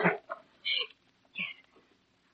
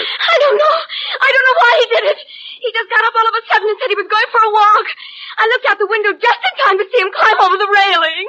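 upset, tearful, rushed; 5 semitones higher than usual. Pretend. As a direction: near sobs, playing the grieving wife. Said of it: "Did I sound convincing?".

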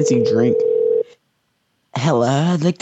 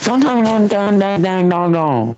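put-on a higher, louder echo of the old lady; imitating old lady; 8 semitones higher, 4 dB louder than usual. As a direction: parrot her shrill anger. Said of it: "quoting the old lady".

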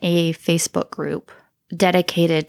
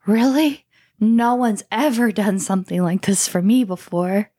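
mock grateful kid; 3 semitones higher than usual.

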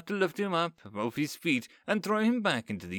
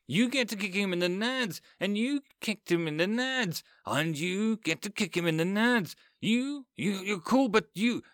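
higher, gleeful rampage; gleeful yelling; 8 semitones higher than usual. A narrator's reading. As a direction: sort the men out with glee. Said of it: "Becca yells".

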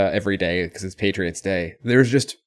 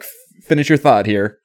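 a firm, slightly louder correction, like a teacher; parental teacher voice; 6 dB louder than usual. Retold or imitated. Host imitating the clerk correcting a customer, mildly stern teacher voice. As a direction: tell him to finish like a stern parent would. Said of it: "It's very parental or teacher-like almost".

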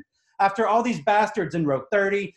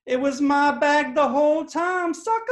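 gloating taunt; 11 semitones higher, 3 dB louder than usual. Pretend. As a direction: savor the reveal like a victory lap. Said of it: "look the woman right in the eyes and say".

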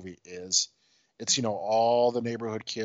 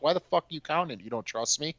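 mock indignant challenge, pitched up; Haley; 6 semitones higher than usual. Tenant challenges manager counting her rent, high mock indignation. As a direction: imitate an offended tenant. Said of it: "She's like".

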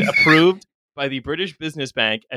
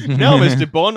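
mock Bond villain; 4 dB louder than usual. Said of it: "Bond villain who doesn't talk in a German accent".

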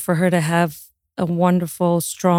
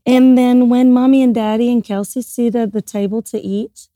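put-on kids theatre voice; 3 semitones higher than usual. Mom coaxing toddler before grace.

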